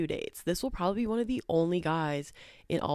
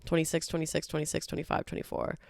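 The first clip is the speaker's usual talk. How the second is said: auctioneer; faster than usual. Pretend. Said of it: "I sound like an auctioneer right now".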